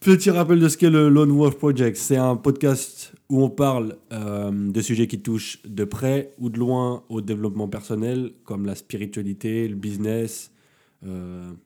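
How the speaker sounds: blocked nose, speaking through the nose; talking with a cold; stuffy nose. Real, not acted. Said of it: "Désolé pour mon nez, il est un petit peu bouché".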